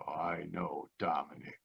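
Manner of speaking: barely audible grave whisper; hushed whisper. Acted. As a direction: whisper it like a secret. Grave hushed certainty about Dominic.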